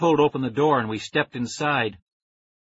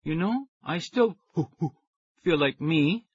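scratchy, high; 4 semitones higher than usual. A narrator's reading. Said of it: "My voice came out scratchy and high".

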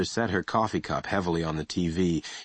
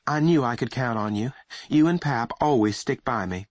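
softened voice; 5 semitones higher than usual. Acted. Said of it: "His mother's voice softened".

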